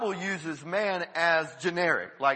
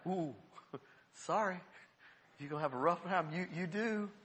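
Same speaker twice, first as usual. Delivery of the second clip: laughing; 9 dB quieter than usual. Retold or imitated. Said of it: "I'm like".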